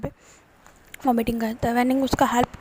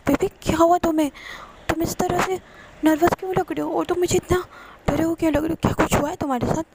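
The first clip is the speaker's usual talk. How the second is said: higher, urgent worried questions; anxious boyfriend; 5 semitones higher, faster than usual. Retold or imitated. Boyfriend worried why his partner sounds scared, pitched up. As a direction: press him gently but urgently.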